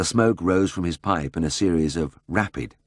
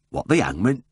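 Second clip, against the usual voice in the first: burst out in surprise; 5 semitones higher than usual. A narrator's reading. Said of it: "Mister Dakin burst out".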